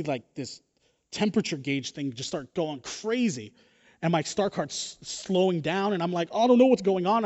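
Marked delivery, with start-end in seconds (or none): 6.3-7.2 higher-pitched, mock panicked outburst; acted freaking out. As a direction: play up the rising panic. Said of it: "I'm freaking out".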